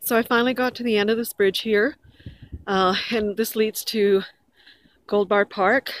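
winded after running; breathless, catching air; out of breath. Real, not acted. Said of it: "Sorry, I'm out of breath 'cause I was running".

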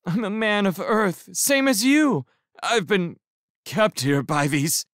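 high, earnest appeal; hammed-up plea for sympathy; pleading prisoner. A narrator's reading. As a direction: prisoner appeals to a fellow Earthman.

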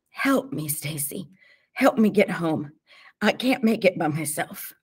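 pained, needy plea; pleading. A narrator's reading. Beaten T J begs Stacy to get him home, pleading. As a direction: beg a friend for help.

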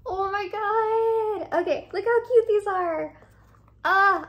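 high, teary, overwhelmed gasp; real happy tears breaking through; almost crying. Real, not acted. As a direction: voice cracking with joy at the shoes. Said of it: "I'm trying not to cry right now".

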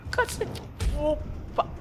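squeaky startled curse; very high pitch. Real, not acted. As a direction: yelp it in sudden fright. Sudden scare in game.

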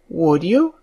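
small coaxing question, rising at the end; soft, eager coaxing. A narrator's reading. Mary presses the robin, softly coaxing. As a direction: plead gently and hopefully. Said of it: "in a tone so soft and eager and coaxing".

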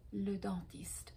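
breathy whispered le dentiste for the class; whispered echo. Shown as a demonstration. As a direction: repeat le dentiste in a soft whisper. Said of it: "On the other side is le". (le dentiste chuchoté)

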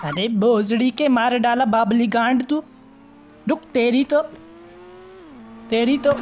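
a hammed-up shout at the pest, slow; mock angry yell. Dubbing a girl furious at the pest, mock angry yell. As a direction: yell it like a furious game character dubbing herself.

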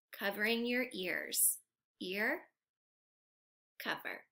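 quiet so dad can sleep; hushed. Shown as a demonstration. Teacher hushing the kids so dad can rest. Covering ears so dad rests.

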